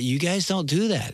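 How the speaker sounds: ordinary talk, nothing marked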